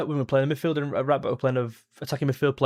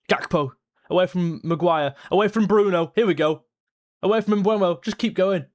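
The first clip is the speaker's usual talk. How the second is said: quick rising calls, pitch up; excited play-by-play; 4 semitones higher than usual. Real, not acted. Fan calling Gakpo's run past defenders, excited. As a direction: call the dribble as it happens.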